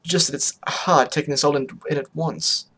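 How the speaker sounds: halting, repeated words; stammering. Acted. Octavia struggling to take it in, mildly stammering. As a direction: trip lightly over the words. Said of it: "I stammered".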